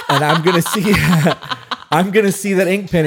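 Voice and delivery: laughing while talking. Real, not acted. Laughing as she tells her partner the pen story. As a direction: talk through your own laughter.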